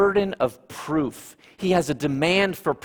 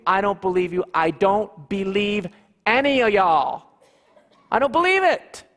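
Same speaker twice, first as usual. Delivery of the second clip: Thomas refusing; 2 semitones higher than usual. Acted. Thomas tells the disciples he won't believe. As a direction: hammer the refusal over and over.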